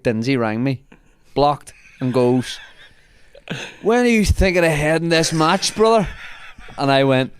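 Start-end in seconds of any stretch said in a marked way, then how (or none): 3.8-6.1 put-on drunk mate. Drunk Dinsey calling from outside, tipsy. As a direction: slur it like a blocked lad on the phone.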